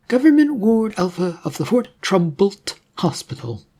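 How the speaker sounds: a cheerful nurse who takes charge; brisk nurse. Acted.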